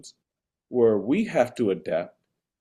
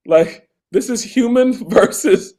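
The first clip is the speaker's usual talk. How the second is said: escalating comedy rant; 2 semitones higher, 7 dB louder than usual. Real, not acted. Escalating rant about Waymo riders.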